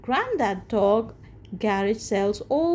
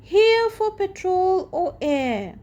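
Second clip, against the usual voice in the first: Grandad Dog voice; 9 semitones higher, 4 dB louder than usual. Acted. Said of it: "says Grandad Dog".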